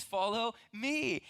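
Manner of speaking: slow, with "me" held long and leaned on; stress on me. Retold or imitated. Preacher setting Jesus against feelings, "me" stressed and drawn out. Contrast with "follow your feelings.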